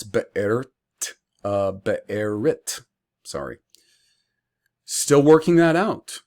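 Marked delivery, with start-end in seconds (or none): 0.0-0.7 be'ert drawn out slowly with a break; be'ert, tentative variant. Shown as a demonstration. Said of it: "or maybe it's". 1.7-2.8 be'erit slowly, extra syllable before T; be'erit, tentative variant. Shown as a demonstration. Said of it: "or maybe it's".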